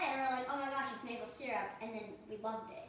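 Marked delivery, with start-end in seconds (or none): 0.5-1.7 excited realization. Retold or imitated. Retells recognizing syrup.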